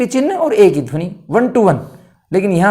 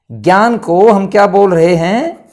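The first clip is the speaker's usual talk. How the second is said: ज्ञान को हम क्या बोल रहे हैं said slower, leaning on को; slower emphatic question; 5 dB louder, slower than usual. Shown as a demonstration. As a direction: draw out the question to make them think. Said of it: "आधा गे या ने।".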